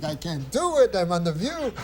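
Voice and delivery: mock Jewish accent, pitched high; crazy Jewish accent. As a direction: redo the producer's line in a hammed-up Jewish accent. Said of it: "I had this crazy Jewish accent in the story".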